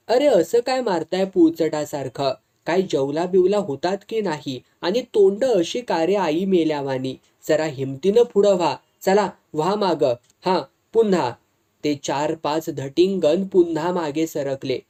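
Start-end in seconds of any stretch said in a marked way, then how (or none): 0.1-11.3 angry snap. Acted. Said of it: "रागाने म्हणाला ... जवळजवळ खेकसलाच".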